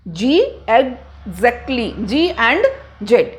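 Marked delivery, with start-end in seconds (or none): 0.7-1.9 "exactly" pulled apart slowly as eg-zactly; GZ sound. Shown as a demonstration. Teacher isolating the G and Z, slow split "exactly". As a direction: break "exactly" after the voiced g, then z. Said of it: "तो ये sound आ रही है".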